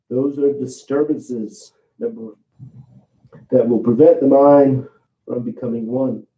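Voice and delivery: muffled, face down on the mat; talking into the mat. Real, not acted. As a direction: speak with your face in the mat. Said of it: "I'm talking into the mat".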